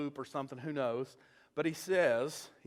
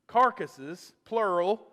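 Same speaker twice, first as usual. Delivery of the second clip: carcasses said louder, then plural hit hard; stress on plural; 3 semitones higher, 7 dB louder, slower than usual. Shown as a demonstration. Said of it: "when I said plural".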